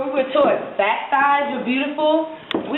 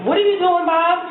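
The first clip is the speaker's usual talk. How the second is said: higher-pitched startled question; acted alarm; 5 semitones higher than usual. Woman to Bob as he undresses her, mildly alarmed. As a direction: question him in mild panic.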